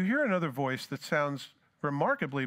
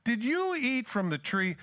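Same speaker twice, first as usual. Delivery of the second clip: slow, higher, dawning realisation on "you"; tender realising question; 8 semitones higher, slower than usual. Retold or imitated. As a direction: let it slowly dawn, gently. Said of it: "That would explain everything".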